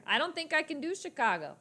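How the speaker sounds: high-pitched stab at Chicago accent; Chicago accent attempt. Shown as a demonstration. Doubting their skill, in a rough Chicago accent. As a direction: try Chicago, sliding toward Jersey. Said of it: "do a Chicago accent".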